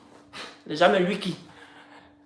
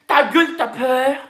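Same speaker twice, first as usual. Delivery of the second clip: slow, higher mock-Parisian put-down; mocking Parisian "Ta gueule", slow and raised; mock Paris slang; 4 semitones higher, slower than usual. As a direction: draw it out in imitated Paris slang. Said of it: "À Paris, ici, ils disent que".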